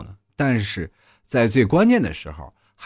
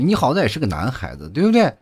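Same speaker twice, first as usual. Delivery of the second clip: mock angry teacher; 4 semitones higher than usual. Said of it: "那老师就生气了".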